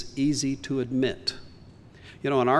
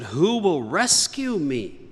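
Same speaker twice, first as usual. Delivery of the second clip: crying out. Retold or imitated. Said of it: "he cried out".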